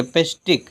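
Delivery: "pestic" said as the long, strong beat; drawn-out stressed pestic. Shown as a demonstration. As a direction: stretch "pestic" as one stressed unit. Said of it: "pestic ऐसे बोले".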